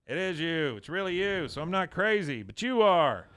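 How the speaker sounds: retold thrill of being proved right; amazed vindication. Retelling an amazed, vindicated discovery.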